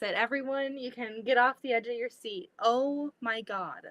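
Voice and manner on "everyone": usual speaking voice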